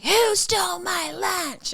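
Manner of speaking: high, slow Canadian demand; Canadian accent. Retold or imitated. Canadian teacher to staff room, slow Canadian accent. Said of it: "Great Canadian accent".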